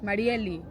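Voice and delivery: Marieli with a strongly rolled R; rolled R's on purpose. Shown as a demonstration. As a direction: roll the R in Marieli hard, on purpose. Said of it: "I roll my R's".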